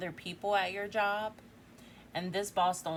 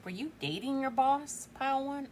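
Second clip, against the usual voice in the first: teasing; 6 semitones higher than usual. Real, not acted. Teasing the viewer about boss.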